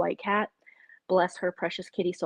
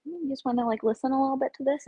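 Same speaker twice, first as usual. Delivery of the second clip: higher, coaxing voice, a bit fast; teasing sing-song; 6 semitones higher, faster than usual. Retold or imitated. To her husband in bed, a coaxing higher voice. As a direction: tease him into listening, sweetly. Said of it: "I'm just like".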